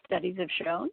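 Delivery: "Studies have shown?" repeated as a doubtful question ending in a rise; puzzled echo. Retold or imitated. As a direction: echo it back, unconvinced. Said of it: "And I said".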